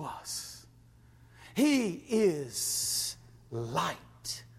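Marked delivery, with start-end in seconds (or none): 1.5-4.4 hushed reverence. Real, not acted.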